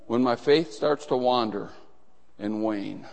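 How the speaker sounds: earnest prayer that sinks to a hush; fervent prayer. Acted. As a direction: pray it out, rising then sinking. Preacher voices a fervent prayer.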